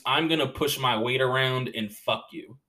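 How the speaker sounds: blunt, bossy push-around tone; domineering fuck you. Shown as a demonstration. Comic shows the bullying kind of fuck you, blunt and bossy. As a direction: throw your weight around on "fuck you". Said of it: "And not, like, sexually fuck you".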